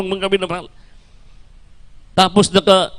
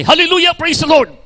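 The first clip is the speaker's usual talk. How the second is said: mock joyful shout of Hallelujah; mother's shout of praise; 7 semitones higher than usual. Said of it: "Pagsinggit ng nanay".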